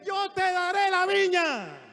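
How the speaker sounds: loud, high, drawn-out declaration; full-force domineering wife's cry; defiant confronting shout. Acted. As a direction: shout it slowly, taking over from the king. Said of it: "mira cómo le enfrentó".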